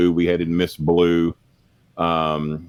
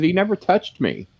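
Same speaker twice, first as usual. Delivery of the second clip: imitated girlfriend, pitched way up; pleading girlfriend; 12 semitones higher than usual. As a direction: protest in a high imitation of her. Girlfriend's retold protest to boyfriend.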